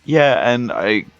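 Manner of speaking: young rival's lightly put-on northern English voice; halting start in a northern English accent. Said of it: "talk in their accent".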